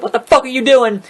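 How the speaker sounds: imitating the referee snapping back at Jericho; retold referee yell. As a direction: play the ref losing his cool. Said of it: "who was like".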